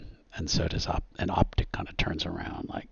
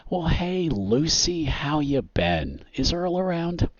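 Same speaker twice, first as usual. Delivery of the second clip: high, hearty big-guy greeting; boisterous hometown glad-hander; loud and boisterous; 10 semitones higher, 4 dB louder, slower than usual. Acted. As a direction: make sure the whole room hears you. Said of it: "whose voice is just loud and boisterous".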